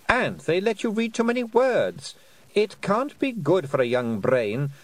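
silky, mocking fairy queen voice. Queen taunting Tiffany with a cool, mocking voice. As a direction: taunt her sweetly from above.

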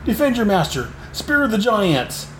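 a hint of a desperate tyrant crying out; villain Torbull. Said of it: "Torbull's like".

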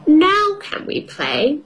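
put-on high slow hopeful child; little girl voice. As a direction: ask hopefully like a small girl. Peppa voiced in story.

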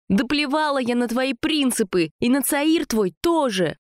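high-pitched indignant outburst; indignant cry. A narrator's reading. Sasha rows with Jacques by the mine, indignant high cry. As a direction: cry out high, stamping mad. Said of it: "кричала Саша, возмущённо топая ножкой".

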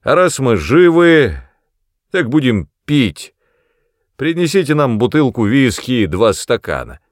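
put-on loud, boisterous drunken father; грубый отец. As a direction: bellow it like a menacing drunk. Brodie voiced in story. (громкий пьяный голос отца)

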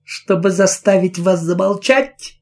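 shouted. Acted. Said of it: "выкрикнула она".

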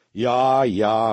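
drawn, loud doubting grumble; unconvinced grumble. A narrator's reading. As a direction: grumble it, far from convinced. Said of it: "bromde Louietje, nog lang niet overtuigd". (brommend, niet overtuigd)

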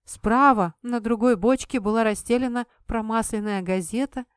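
ordinary delivery, nothing marked

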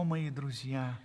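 normal talking voice

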